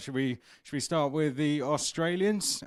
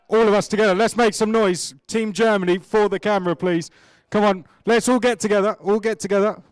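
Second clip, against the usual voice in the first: rallying call; 3 semitones higher, 6 dB louder than usual. Real, not acted. Host rallies team to cheer.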